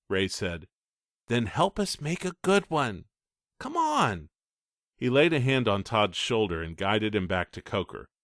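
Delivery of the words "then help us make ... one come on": higher, firm big-brother talk; older brother lecturing. Acted. Ray lecturing his little brother, firm. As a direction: set him straight kindly. Ray's voice.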